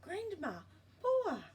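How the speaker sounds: high, loud call across the beach. Acted. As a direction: call out to them from afar. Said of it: "Te Rere Hua called".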